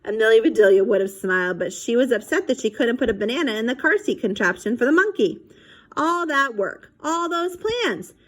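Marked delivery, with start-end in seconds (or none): 6.0-8.1 disappointed. A narrator's reading. Amelia's disappointment.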